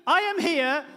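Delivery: put-on high, loud small-child voice; three-year-old daughter in nurse's outfit at the door; little girl. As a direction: offer help like a proud toddler. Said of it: "she stands in the doorway like this".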